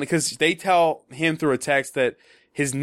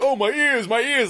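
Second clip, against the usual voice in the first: exaggerated line reading; 6 semitones higher than usual. Shown as a demonstration. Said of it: "exaggerate the way I wanna say it".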